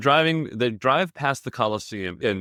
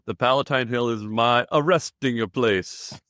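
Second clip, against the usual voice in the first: put-on Italian accent; slower than usual. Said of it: "trying to do an Italian accent".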